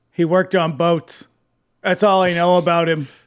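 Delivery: deadpan, flat monotone with no inflection. Retelling what a man said, copying how he said it: flat, no inflection. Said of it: "Just like that, like that, just like with that much inflection".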